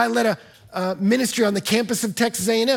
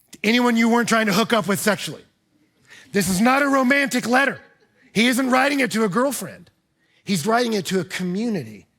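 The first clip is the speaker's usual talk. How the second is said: emphatic; 3 semitones higher, 3 dB louder than usual. Real, not acted. Preacher presses the point.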